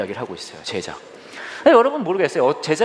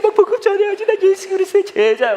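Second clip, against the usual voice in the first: much higher, louder zeal; fired-up believer; 5 dB louder than usual. Retold or imitated. Preacher mimicking a zealous believer, much higher and louder. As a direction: declare it all fired up.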